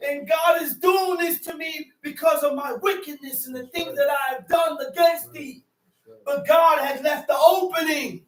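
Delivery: full-force pulpit preaching; fiery preaching. Acted. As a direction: preach it hard to the room.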